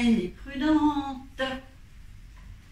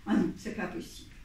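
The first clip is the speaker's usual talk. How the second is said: whispered dismay; 3 semitones lower, 8 dB quieter, much faster than usual. Acted. Boy refuses in dismay.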